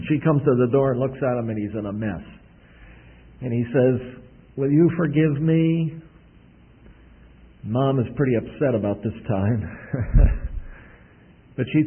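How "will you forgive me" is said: a light hint of a small boy, slow and pleading; little boy pleading. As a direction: ask sheepishly like a muddy little boy. Little boy asks mom forgiveness.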